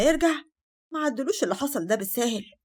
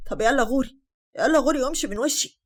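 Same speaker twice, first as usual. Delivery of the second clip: angry shout; 3 semitones higher, 5 dB louder than usual. Acted. Angry mother snaps at daughter.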